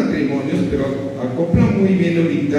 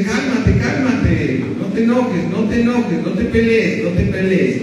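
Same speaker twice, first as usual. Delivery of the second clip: wife calming him; 5 semitones higher than usual. Retold or imitated. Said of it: "tu esposa te dice".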